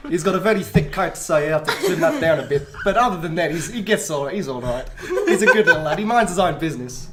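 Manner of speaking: playful put-on South African accent, laughing through it; a guest in role, broad South African. Guest answering hosts in a put-on South African accent. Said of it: "Can you tell us what you do in South African then?".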